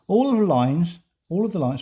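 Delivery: talking around a pencil; words muffled by pencil in teeth; pencil in mouth. Real, not acted. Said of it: "I had my pencil in my mouth there".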